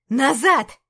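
a sharp, loud shouted order. Acted. Antey shouts at the guards, loud. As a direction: bark it loud to hold the guards back. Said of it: "крикнул Антей".

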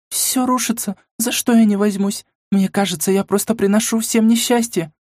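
сквозь рыдания; плача, в отчаянии; рыдая. Acted. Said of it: "продолжая рыдать". (рыдающий голос)

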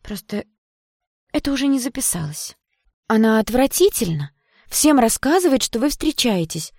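put-on a pouting girlfriend telling tales against a rival; Yana, jealous and spiteful. A narrator's reading.

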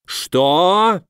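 high, drawn-out outraged question; a restrained roar of disbelief. A narrator's reading. Legate hears of the stolen bracelet, mild roar. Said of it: "взревел Охранис".

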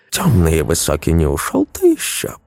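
mumbling toothlessly, mushy; gumming soft food. Acted. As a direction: mumble it like an old woman with no teeth. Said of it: "прошамкала бабушка".

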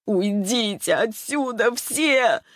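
slow, high scream not her own voice; screaming in a strange voice. A narrator's reading. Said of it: "закричала Ярослава не своим голосом".

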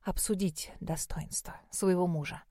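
breathy whisper, barely voiced. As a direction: whisper it close to his lips. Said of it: "прошептала Малин".

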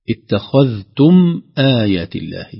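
اتخذتم آيات الله slowly, loud, the م sounded; clear mim. Shown as a demonstration. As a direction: let the م of اتخذتم ring out. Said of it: "الميم سكنت وظهر سكونها". (إظهار الميم في اتخذتم)

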